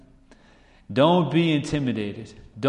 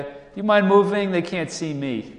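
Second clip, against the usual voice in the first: teasing Mordecai; 6 semitones higher than usual. Retold or imitated. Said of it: "Mordecai being like".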